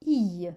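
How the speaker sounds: I long et mouillé, comme dans cuillère. Shown as a demonstration. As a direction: say I as a drawn-out liquid glide. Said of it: "donneront le I". (« I » allongé et mouillé, comme dans cuillère)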